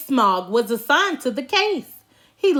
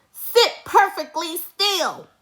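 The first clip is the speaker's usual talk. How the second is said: stern teacher; 6 semitones higher than usual. A narrator's reading. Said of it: "said Miss Swamp".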